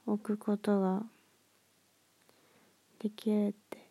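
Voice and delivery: talking through a yawn; sleepy words stretched by a yawn. Real, not acted. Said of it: "めっちゃ眠くてあくびしちゃいました".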